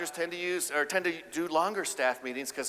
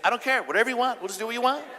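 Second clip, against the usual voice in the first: higher, breezy I-don't-care tone; mock indifferent husband; 8 semitones higher, 3 dB louder, faster than usual. Husband giving in on dinner choice, breezy and indifferent. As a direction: shrug it off to please her.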